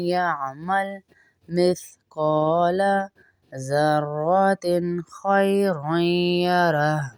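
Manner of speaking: slow, drawn-out melodic tarteel; Quran recitation. Shown as a demonstration. Teacher reciting the verse to students, slow melodic tarteel. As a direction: chant each word slowly and evenly.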